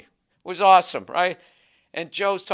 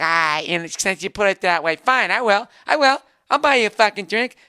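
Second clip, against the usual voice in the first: grudging stripper; 5 semitones higher, 5 dB louder than usual. Retold or imitated.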